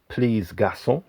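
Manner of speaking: put-on a light French accent on Please Garçon. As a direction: say the title with a hint of a French accent. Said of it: "doing a French accent".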